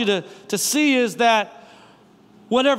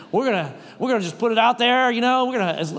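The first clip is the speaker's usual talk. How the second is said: chest-out bravado; faster than usual. Retold or imitated. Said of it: "say it with my chest out".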